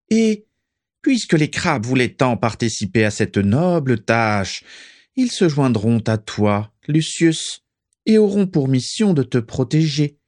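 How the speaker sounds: high, deliberate master's voice; Voldemort. A narrator's reading. Voldemort assigning helpers to Lucius, high commanding voice. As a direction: give orders in a high, stately tone.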